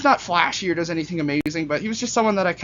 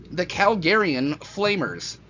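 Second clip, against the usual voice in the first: silly voice; much slower than usual. Pretend. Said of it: "I don't know why I'm doing these voices".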